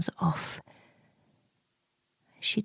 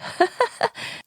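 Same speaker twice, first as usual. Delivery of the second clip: high breathy laugh. Retold or imitated. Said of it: "And I laugh".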